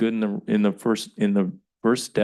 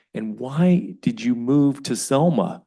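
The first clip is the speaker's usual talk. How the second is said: retold pointed question; 4 semitones higher, 6 dB louder, slower than usual. Retells pointed question put to residents.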